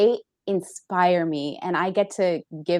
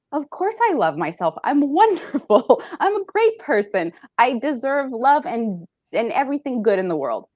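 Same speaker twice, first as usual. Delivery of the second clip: self-assured self-talk; 5 semitones higher, 3 dB louder than usual. Retold or imitated. Acts out present self-loving self-talk.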